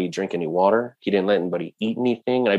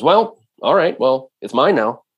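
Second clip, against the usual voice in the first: cocky white man; 4 semitones higher, 4 dB louder than usual. Retold or imitated. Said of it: "a cocky white man".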